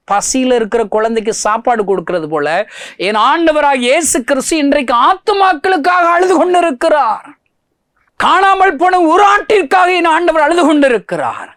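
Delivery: high, loud crying-out sermon voice; full-force preaching. Acted. Preacher asking the congregation why Jesus still weeps, full-force preaching. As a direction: wail it from the pulpit.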